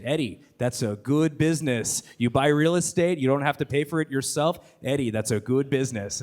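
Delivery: lightly voiced fatherly business advice; a hint of an old-world father, measured and emphatic; Eddie's father. Father advising his son on real estate, light impression. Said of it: "Eddie's father impression".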